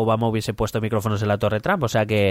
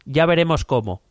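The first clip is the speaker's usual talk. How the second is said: higher-pitched Trump diary voice; 6 semitones higher than usual. Acted. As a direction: read it as a pompous Trump. (voz de Trump, más aguda)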